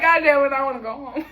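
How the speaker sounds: exasperated whine. Retold or imitated. Exasperated retold reaction.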